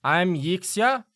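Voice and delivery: deliberate weighty gnome; gnome introduces herself. Acted. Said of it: "She'll turn to you and say".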